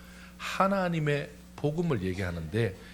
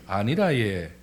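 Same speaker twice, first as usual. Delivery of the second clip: swooping Gyeongsang lilt; Gyeongsang dialect; 3 semitones lower, slower than usual. Shown as a demonstration. Reassuring someone as in Gyeongsang, Gyeongsang accent. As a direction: rise and fall like a Gyeongsang local. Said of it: "경상도는".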